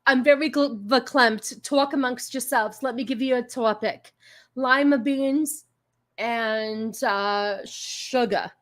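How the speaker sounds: lightly put-on verklempt talk-show host; imitating sketch characters. Host mimicking a played comedy clip for viewers, lightly put-on voice. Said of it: "And then sometimes they go".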